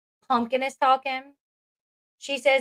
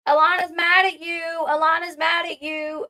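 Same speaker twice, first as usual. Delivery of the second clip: lightly voiced kid telltale, pitched up; higher-pitched imitation of a child's taunt; mimicked tattling child; 4 semitones higher than usual. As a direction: repeat it like a tattling little kid. Voicing a child tattling on sister.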